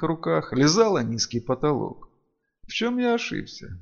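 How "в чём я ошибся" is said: softer, higher-pitched self-questioning; anguished inner thought. A narrator's reading. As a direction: think it aloud, mildly pained. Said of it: "мучительно думал правитель Мелина".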